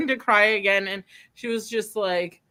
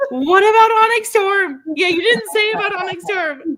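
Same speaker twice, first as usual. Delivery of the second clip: mock nagging; 11 semitones higher, 7 dB louder than usual. Mimicking friend's repeated comment.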